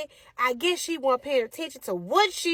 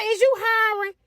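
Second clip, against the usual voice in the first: put-on high, cheeky little girl asking; a sassy kid acting grown; 8 semitones higher than usual. Daughter asking the manager for a job, high and cheeky.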